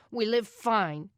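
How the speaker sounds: bit out. Acted. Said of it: "he bit out".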